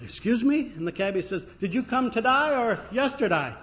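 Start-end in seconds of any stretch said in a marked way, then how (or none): 0.0-0.7 high, taken-aback query; upset. Acted. American tourist questioning the cabbie, upset. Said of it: "The guy was kind of upset". 1.6-3.5 high-pitched Australian cabbie; punchline in a broad Australian accent. Acted. Cabbie clarifying for the upset tourist, Australian accent. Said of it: "he's not speaking Australian".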